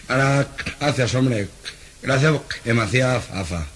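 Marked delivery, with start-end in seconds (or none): 2.0-3.7 se traba en fa entre risas; tartamudeo risueño. Acted. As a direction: tartamudea y ríete. (tartamudo que no logra decir favor)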